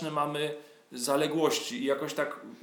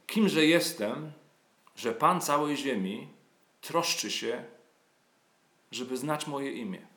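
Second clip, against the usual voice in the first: reading song lyrics aloud. Acted. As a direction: recite it like a psalm, lingering on each line. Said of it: "po polsku będzie brzmiała tak".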